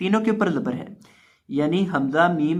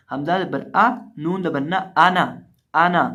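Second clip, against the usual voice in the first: Quran spelling recitation. Acted. Teacher chanting the letters so students repeat.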